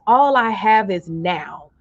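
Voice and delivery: slow, deliberate statement of the phrase; slow affirmation. Shown as a demonstration. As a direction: say it slowly so they can type it. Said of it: "type in the comments".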